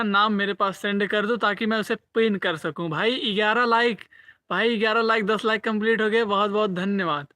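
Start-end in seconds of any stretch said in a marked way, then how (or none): 2.9-7.3 loud, high celebration of eleven likes; excited cheer. Real, not acted. Cheering viewers for hitting eleven likes, loud and thrilled. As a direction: burst out happily at the milestone.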